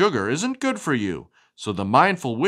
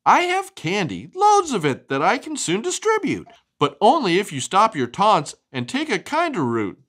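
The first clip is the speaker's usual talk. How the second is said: Andy's proposal; 5 semitones higher than usual. Acted. Andy's lines in picture book.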